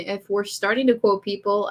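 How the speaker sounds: plain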